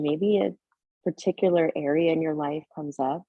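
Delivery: gentle meditation guidance with long pauses; unhurried, settled yoga-teacher voice, leaving space between phrases; guided meditation. Real, not acted. Leads a seated breathing meditation.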